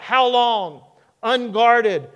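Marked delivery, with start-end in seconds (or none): 0.0-0.8 tag. Acted. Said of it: "it just kind of slips out".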